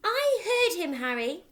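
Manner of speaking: high, loud frightened insisting; mother insisting to husband; shriek. Acted. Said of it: "the mother shrieked".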